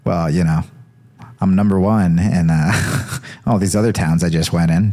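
a hint of a smug Trump boast; Jesus bragging like Trump. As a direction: brag like a politician counting votes. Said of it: "And he's like".

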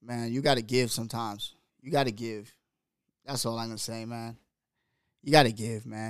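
soft, subdued after a long pause; emotional. Real, not acted. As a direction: quietly wrap up while holding back emotion. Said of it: "I'm getting emotional".

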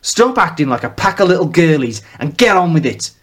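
father scolding his sons, lightly gruff; lightly gruff northern father. Acted. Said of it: "same cadence as a famous singer, just with added gravel and bass".

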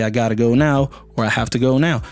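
casual American accent, low pitch. Shown as a demonstration. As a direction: say it in relaxed, low American English. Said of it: "So just say".

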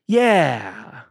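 dry, doubting yeah; a yeah that says you didn't; sarcastic yeah. Shown as a demonstration. Host demos sarcasm after a no. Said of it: "you can hear that there's sarcasm in there".

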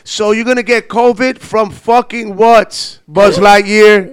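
swearing tirade. Retold or imitated. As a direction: curse them out laughing. Mocking Covid fears, cursing.

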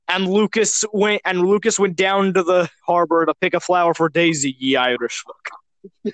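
lightly put-on Irish storyteller, slowing into the last words; Irish accent. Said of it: "read it in an Irish accent".

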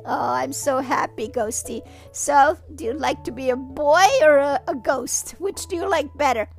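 gentle mother. Acted. Mother talks softly to son.

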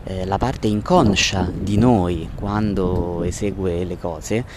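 noisy street recording; phone recording outdoors; bad audio from the street. Real, not acted. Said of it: "Scusate l'audio incasinato".

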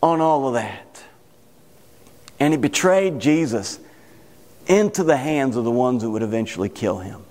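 low, grave sermon voice; weighty telling with long pauses; solemn preaching. Real, not acted. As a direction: let it sink into a somber, low register. Solemn telling of Judas's death.

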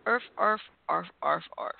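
playful yappy barks; puppy barking. Pretend. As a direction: yap like a little puppy. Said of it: "I didn't know you could speak to puppy".

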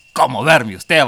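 loud retold line breaking into laughter; amused, loud imitation; laughing quote. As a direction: crack up while voicing the other man. Teller cracks up voicing the gang member.

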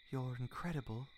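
soft, hushed murmur; breathed. A narrator's reading. He praises her after their first kiss, softly breathed. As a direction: say it softly, just for them. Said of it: "he breathed against her".

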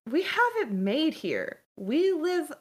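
high-pitched cellmate talking up prison life; boastful cellmate. Acted.

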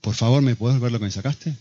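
polite, low-pitched practice request; pedir bien. Retold or imitated. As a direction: play a child rehearsing asking nicely. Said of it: "vamos a practicar. Decíselo". (petición amable ensayada, en tono bajo)

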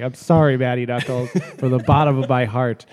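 apologizing through laughter; mock heartfelt sorry, giggling; laughing apology. Real, not acted.

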